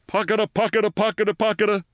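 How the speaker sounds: very high, rhythmic imitated engine patter; menacing machine noise. A narrator's reading. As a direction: chant it like a pulsing machine. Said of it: "came the menacing".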